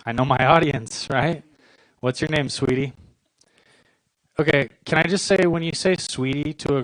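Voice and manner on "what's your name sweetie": put-on a normal guy's voice asking a girl's name, mildly creepy. Shown as a demonstration. Comic demoing how a stranger sounds asking a girl's name, mildly creepy. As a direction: say it straight and a bit creepy. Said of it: "or else it's so creepy".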